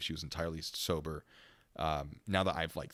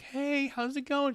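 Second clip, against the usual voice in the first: gentle greeting; 3 dB louder, much slower than usual. Retold or imitated. Cop greeting the high woman in the cell, slow and high. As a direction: ease into the room with a friendly high voice.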